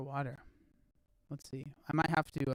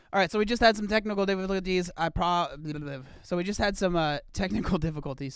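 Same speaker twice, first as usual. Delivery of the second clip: excited restart; 3 semitones higher, 7 dB louder than usual. Real, not acted. Restarting stream after tech trouble.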